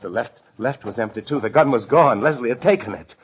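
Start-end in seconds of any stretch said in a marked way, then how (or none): 1.4-3.1 alarmed discovery. Acted. Discovering the gun missing.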